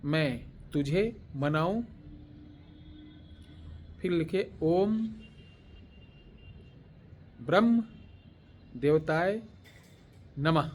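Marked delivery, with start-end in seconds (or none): 0.0-1.8 mantra given word by word; long pauses, each word held; slow dictation. Shown as a demonstration. Teacher dictating the mantra for listeners to copy, slow dictation. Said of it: "धीरे धीरे बोल रहा हूँ". 4.6-10.7 separate, measured mantra words; slow dictation. Shown as a demonstration. Teacher dictating the closing mantra words, slow dictation. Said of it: "धीरे धीरे बोल रहा हूँ".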